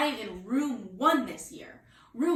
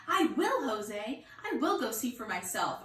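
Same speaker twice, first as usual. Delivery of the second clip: joyful. Acted. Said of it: "really joyful".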